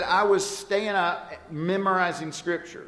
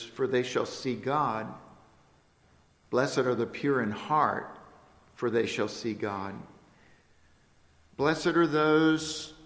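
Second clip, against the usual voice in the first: scripture recitation. Acted. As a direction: let each blessing land with a pause. Recites the Beatitudes.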